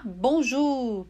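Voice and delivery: Bonjour with French U, bõʒu. Shown as a demonstration. Teacher repeating for student: French bonjour. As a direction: repeat Bonjour slowly and clearly. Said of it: "som ... correspondente ao U".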